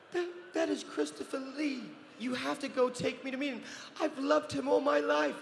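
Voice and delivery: high, thrilled gushing voice; fangirling nana. Retold or imitated. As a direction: gush like a starstruck fan. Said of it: "So here she is fangirling out".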